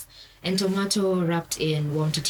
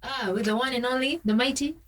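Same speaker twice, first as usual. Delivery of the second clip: higher, grand host introduction; hammy stage actor; 5 semitones higher than usual. Acted. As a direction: introduce the guest like a showman. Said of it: "don't mind the theatrics".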